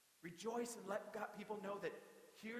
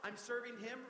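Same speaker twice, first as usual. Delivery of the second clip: mock-eager gushing; excited; 4 semitones higher than usual. Believer thrilled to worship with people, excited. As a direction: gush with joy at getting to serve. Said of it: "Being like".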